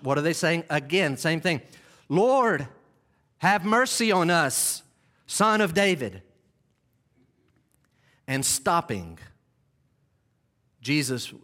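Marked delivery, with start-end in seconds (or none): 2.1-6.2 louder, pleading cry. Acted. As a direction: cry out with another gear. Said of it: "They kick it up a notch".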